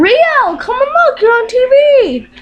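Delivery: very high sing-out to a pet; high, excited pet call. Real, not acted. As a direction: call the bird over in a high, coaxing voice. Calling the pet bird to camera.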